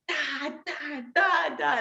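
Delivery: high, spaced "da" noises for punches; imitated jabs. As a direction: mimic throwing little jabs. Imitates her own jabs.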